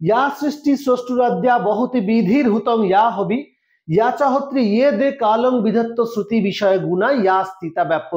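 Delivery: chanted verse recitation; Sanskrit recitation. Shown as a demonstration. Teacher recites the first shloka for students to memorise. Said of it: "এবার চলে আসি আমরা first শ্লোক".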